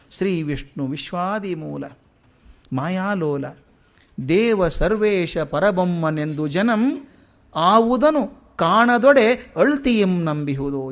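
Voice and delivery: slow verse recital, drawn-out lines; poem recitation. Acted. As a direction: draw out each line of the verse.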